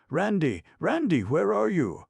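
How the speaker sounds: frantic high calling, long falling ends. A narrator's reading. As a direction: shout across the valley for the boy. Elephant searching for lost boy.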